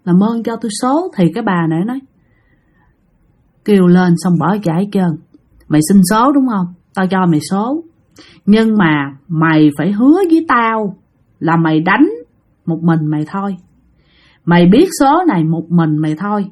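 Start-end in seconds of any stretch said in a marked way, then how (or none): 0.0-1.1 mildly acted frightened begging; trembling plea. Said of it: "trả lời mà run run nói". 3.7-16.5 lightly voiced low ghost; deep voice from hell. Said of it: "mà cái giọng trầm, trầm, trầm".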